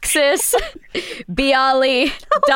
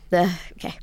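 soft unvoiced whisper; 5 semitones lower, 6 dB quieter, faster than usual. Real, not acted. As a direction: whisper to yourself. Aside while stuck on clue.

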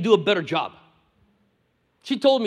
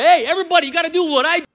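mock bossy colonizer; 5 semitones higher, 4 dB louder, faster than usual. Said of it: "Don't be a colonizer".

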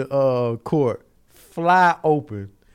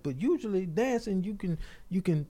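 soft questioning; 3 semitones higher, 6 dB quieter than usual. Retold or imitated. Lawyer gently questions the witness.

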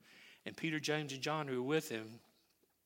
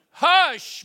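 commanding hush; 21 dB louder than usual. Acted. Jesus commanding the wind again.

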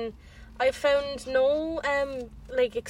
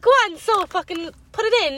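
higher, louder, crying-edged plea; desperate plea; 8 semitones higher, 7 dB louder than usual. Retold or imitated. To the doctor, begging in a crying voice. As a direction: beg through tears to get it over with.

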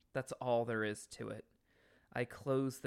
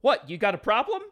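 louder, higher pick-a-fight challenge; tough guy challenge; 7 semitones higher, 11 dB louder, faster than usual. Retold or imitated. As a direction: square up like a bar tough. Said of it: "I always thought it was".

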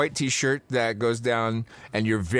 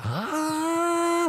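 much higher squeaky ah; high-pitched mock. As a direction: mimic Jack with a high squeak. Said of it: "really high pitched like that".

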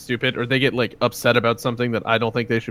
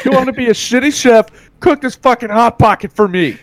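high, loud mock chef yelling, laughing; raging chef; 12 semitones higher, 8 dB louder than usual. Friends joke about a reality cooking show, laughing mock chef yell. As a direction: bellow it like an abusive kitchen boss.

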